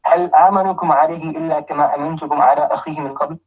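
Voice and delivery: rapid, even recitation of the verse; fast Arabic recital; quick Quran recitation. Acted. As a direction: run through the Arabic verse briskly.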